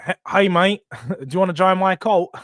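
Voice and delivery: amused attempt at an Australian accent; badly faked Australian accent, breaking into a laugh; Ange's Australian accent. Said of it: "I do love trying the Ange accent".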